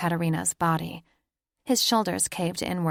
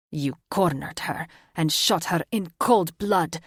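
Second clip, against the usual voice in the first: menacing growl; 3 dB louder than usual. A narrator's reading. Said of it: "his voice dropped to a deep, menacing growl".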